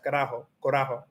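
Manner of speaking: carajo, corajo run together quickly; said really fast. Shown as a demonstration. Learner testing two similar words, said fast. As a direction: rattle off carajo then corajo. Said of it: "if I say really fast".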